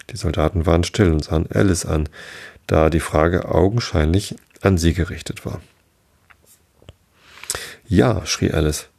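measured read-aloud with lightly voiced dialogue; story narration. A narrator's reading. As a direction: read a bedtime story with lively pitch on the characters.

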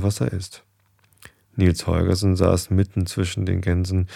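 measured read-aloud storytelling voice; story narration. Acted. Narrator reads a goose tale to listeners, story narration.

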